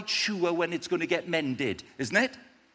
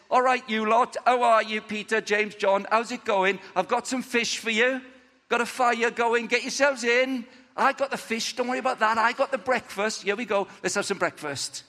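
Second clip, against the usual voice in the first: cheery host; 5 semitones higher than usual. Acted. Jesus cheerily greets friends at breakfast.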